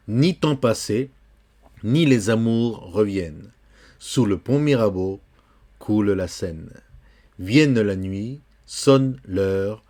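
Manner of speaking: slow, measured French poetry reading; poem recitation. Acted. Teacher reciting a poem to a student, slow poem recitation. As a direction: recite the verse line by line, drawn out.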